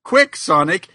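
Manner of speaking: lightly hammed-up pleading; mock desperate Tails. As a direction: beg for a smooch in jest. Voicing Tails in fanfic.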